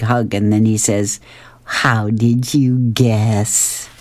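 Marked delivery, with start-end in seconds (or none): 1.6-3.9 slow Garfield reply. Acted. Garfield answers after hugging Pookie.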